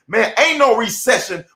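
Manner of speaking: "ain't" punched and stretched; emphatic ain't. Shown as a demonstration. Telling viewers there's no recession, leaning on "ain't". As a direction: hit "ain't" hard on purpose. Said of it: "but it put the emphasis on it".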